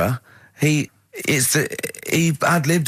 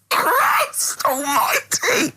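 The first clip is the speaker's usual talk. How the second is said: slow, breathless whisper through laughter; real helpless wheeze; wheezing laugh; much slower than usual. Real, not acted. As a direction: gasp it out, spent.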